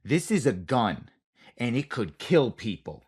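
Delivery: slow, deliberate imitation of a stern stunt coordinator; stunt coordinator speech. Stern coordinator lecturing an actor, slow and deliberate. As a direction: spell it out slowly like talking to a child. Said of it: "it's the same speech every time".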